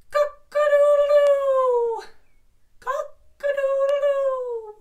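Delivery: loud high drawn-out cock-a-doodle-doo; cockerel crow. Shown as a demonstration. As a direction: crow proudly like a rooster at dawn. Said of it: "be a cockerel".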